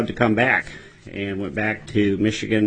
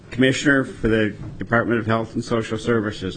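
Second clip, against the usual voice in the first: measured, deliberate announcement of a new title; said slowly. Real, not acted. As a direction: say the title slowly, still getting used to it. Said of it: "I say that slowly".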